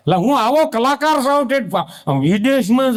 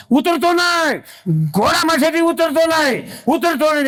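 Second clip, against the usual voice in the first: shouting from the room; 6 semitones higher than usual. Retold or imitated. Man watching TV alone, yelling high at the screen. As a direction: yell it out again and again, pitched high. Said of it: "રૂમમાં પડ્યું પડ્યું રાયડું પાડે".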